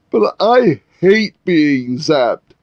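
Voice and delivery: slow, whiny protest; a lightly voiced henchman protesting. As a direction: drag out the complaint. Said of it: "Larrabee protested".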